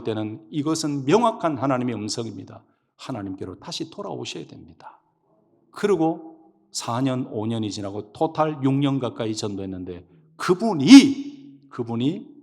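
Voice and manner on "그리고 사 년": ordinary talk, nothing marked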